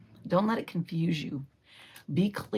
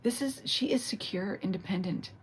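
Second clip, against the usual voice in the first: emotional. Real, not acted. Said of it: "Wow, I'm getting emotional here".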